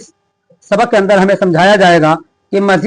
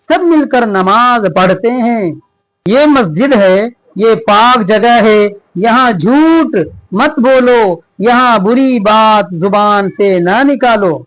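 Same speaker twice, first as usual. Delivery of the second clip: each word read out slowly and evenly; slow lesson reading; slower than usual. Shown as a demonstration. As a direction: read it aloud clearly for young pupils. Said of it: "reads the lesson text slowly". (बच्चों को पाठ पढ़कर सुनाते हुए, धीरे-धीरे)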